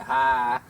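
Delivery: one short sharp Hi; crisp dojo reply. Shown as a demonstration. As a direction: bark a single crisp Hi. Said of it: "very crisp".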